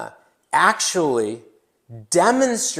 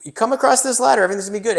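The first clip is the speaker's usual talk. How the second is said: put-on Sherpa accent; 8 semitones higher, 6 dB louder, much faster than usual. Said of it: "I don't know the accent".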